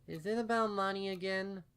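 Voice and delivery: put-on high child's voice, a touch wary; small worried filly. A narrator's reading. Filly asking her mother about money, high and wary. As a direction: ask it like a kid who already knows.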